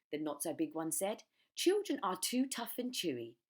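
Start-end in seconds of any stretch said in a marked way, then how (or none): 1.5-3.4 higher, louder, slow disgust; fussy small croc. Acted. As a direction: say it with distaste.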